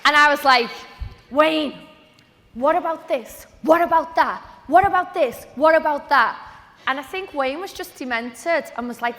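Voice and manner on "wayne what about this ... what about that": eager pestering. Retold or imitated. Pestering her mentor with questions.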